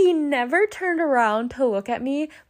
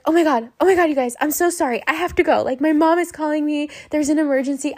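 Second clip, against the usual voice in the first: higher, hurried mock panic; freaking out; 4 semitones higher, 3 dB louder, much faster than usual. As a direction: act out a flustered emergency excuse. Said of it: "I start freaking out".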